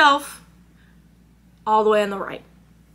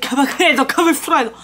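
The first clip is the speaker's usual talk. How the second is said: mock Italian; 2 semitones higher, 3 dB louder than usual. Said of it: "he was like".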